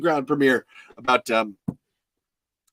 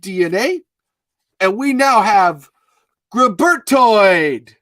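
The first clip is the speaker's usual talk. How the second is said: loud, higher-pitched crazy theorist; hammed-up impression of an excited friend; Chris; 5 semitones higher, 5 dB louder than usual. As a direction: build to a drawn-out, booming big reveal. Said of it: "I'm gonna try to do Chris now".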